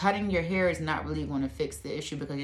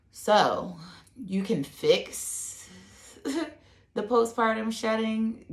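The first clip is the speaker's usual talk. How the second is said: laughing through it; 8 semitones higher, 4 dB louder, much slower than usual. Real, not acted. Laughing mid-sentence, regaining composure.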